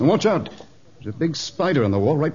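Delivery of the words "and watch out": brisk, mild warning; cautioning. Acted. Man warns of spider beside the dart, cautioning. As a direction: alert them without crying out.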